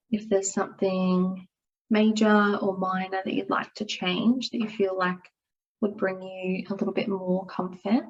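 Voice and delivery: calm, unhurried yoga nidra guidance with long pauses; guided meditation. Acted. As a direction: ease them gently into rest and stillness. Leads a guided relaxation.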